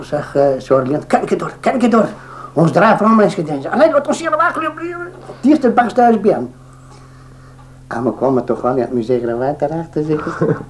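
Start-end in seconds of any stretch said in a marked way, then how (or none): 1.1-6.5 panicky quote. Retold or imitated. Charlie's panicked quote, retold.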